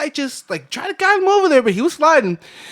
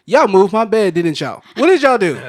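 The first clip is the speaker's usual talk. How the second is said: loud, raised-pitch scolding granny; mock-indignant grandmother confronting the grandkids; accusing granny; 7 semitones higher, 12 dB louder than usual. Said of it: "and she's like".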